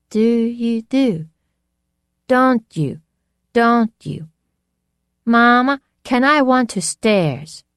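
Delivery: put-on high, thick, weak girl's voice; a thick, feeble echo. A narrator's reading. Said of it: "a thick, weak voice".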